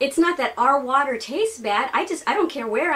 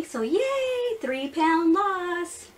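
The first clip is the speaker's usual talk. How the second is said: excited; 6 semitones higher, much slower than usual. Real, not acted. Celebrating weight loss.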